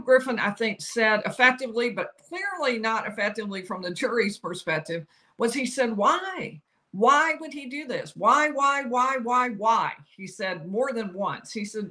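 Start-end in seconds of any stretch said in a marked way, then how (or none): 6.0-9.9 imitating a lawyer's insistent, repeated why; higher, drawn-out, hammering rhetorical question. Quoting lawyer's repeated plea to jury.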